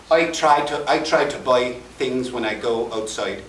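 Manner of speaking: I try to buy with only the Irish I shift. Shown as a demonstration. Showing one vowel shift to the audience, in an Irish accent. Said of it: "all I made in that sentence".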